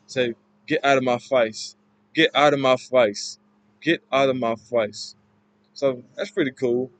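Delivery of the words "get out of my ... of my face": "face" rhymed with rice; Cockney vowel in "face", a long I; Cockney A sound. Shown as a demonstration. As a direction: say "face" as fice. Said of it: "the A sound".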